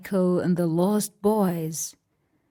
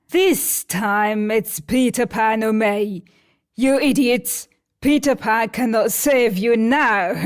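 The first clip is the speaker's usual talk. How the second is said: a hint of villain, louder sneer; gloating Captain Hook; 4 dB louder than usual. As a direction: taunt the captives. Narrator voices Hook.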